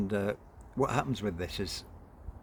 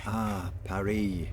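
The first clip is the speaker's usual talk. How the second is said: encouraging tone; 5 dB louder than usual. Acted. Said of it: "in an encouraging tone".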